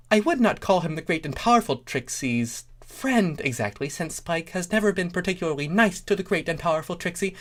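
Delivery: high, fast boastful showpony; Trixie voice. A narrator's reading. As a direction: rattle it off with grand self-importance.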